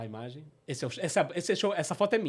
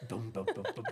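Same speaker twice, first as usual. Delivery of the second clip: batidas do coração; 8 semitones lower, 7 dB quieter than usual. Retold or imitated. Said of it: "Aí meu coração".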